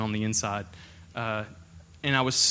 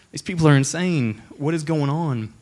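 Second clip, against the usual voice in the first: louder, higher frustrated outburst to God; exasperated cry; 3 semitones higher, 6 dB louder than usual. Retold or imitated. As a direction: vent the anger up to God. Praying, enraged at the camp.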